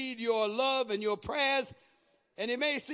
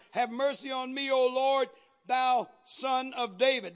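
mildly raised plea, stretched at the end; crying out. Retold or imitated. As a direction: re-enact her call to the Lord. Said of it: "cried unto him".

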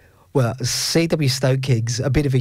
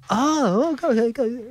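much higher, hurried go go go; eager urging; 11 semitones higher than usual. Retold or imitated. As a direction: hurry them along excitedly. Urging him on.

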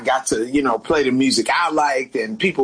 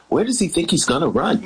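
laughing punchline delivery; 3 semitones higher, faster than usual. Shown as a demonstration. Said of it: "I'ma deliver it just like that".

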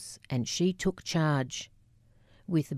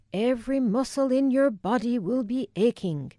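thick Scottish brogue on every word; Scottish accent; 7 semitones higher than usual. Retold or imitated. Family catch cry quoting Wilma, in a thick Scottish accent. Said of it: "my Scottish accent was pitch perfect".

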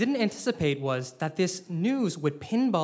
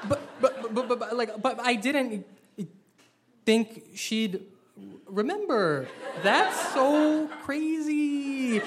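flustered laughing stammer; 6 semitones higher, slower than usual. Acted. Panicked stammer while laughing.

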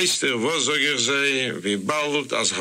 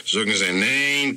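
usual speaking voice

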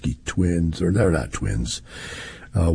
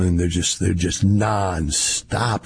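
worn out; slower than usual. Real, not acted. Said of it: "you can just hear it in my voice".

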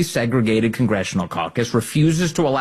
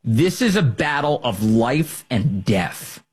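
slow mock quote; slower than usual.

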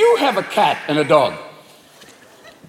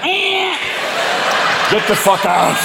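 panicked cat; 2 semitones higher, slower than usual. Acted. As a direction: yowl like a spread-eagled cat blocking the door. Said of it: "if your cat is spread-eagled in the doorway".

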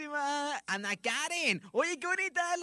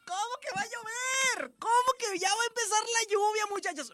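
mock wailing lament; 10 semitones higher than usual. Radio host wailing to listeners about the rain, mock crying. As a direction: wail it like the rain ruins your day.

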